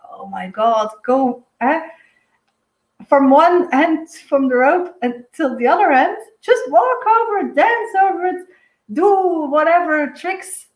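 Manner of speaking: urging the acrobats on, pitch climbing; excited cheering on. Retold or imitated. Herself cheering on circus rope walkers, excited.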